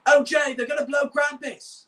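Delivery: hushy, whispery yell; high, loud yell with a whispery edge; Tencent. Shown as a demonstration. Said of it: "kinda hushy, whispery yell".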